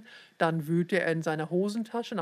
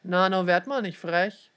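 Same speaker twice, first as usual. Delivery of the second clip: louder gruff rebuke; louder scolding snap; snapping at her; 5 dB louder than usual. Acted. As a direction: put the cheeky girl in her place. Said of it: "fuhr sie an".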